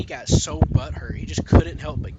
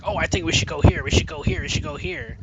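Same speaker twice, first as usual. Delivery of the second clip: mocking impression; 9 semitones higher than usual. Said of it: "He's like".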